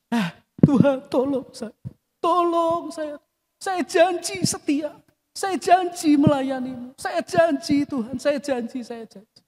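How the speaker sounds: imitating a whiny, begging sinner, high and slow; half-mocking crybaby prayer, fading out; mock tearful plea. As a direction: ham up a pleading promise to God. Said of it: "sambil nangis-nangis".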